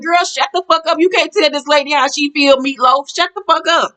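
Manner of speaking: high-pitched mock telling-off; sassy, fed-up clapback at normal volume; exasperated retort. Own retort to Heather in the story.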